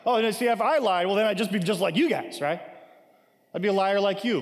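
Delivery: lightly mocking retort, pitched a little up; sarcastic paraphrase of a comeback; put-on sarcasm. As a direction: throw it back at them sarcastically. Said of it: "a little bit of sarcasm put on here".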